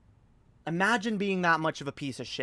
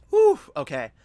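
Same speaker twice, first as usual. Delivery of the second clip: relieved whew; 7 dB louder than usual. Real, not acted. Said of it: "Let's cool down a little bit".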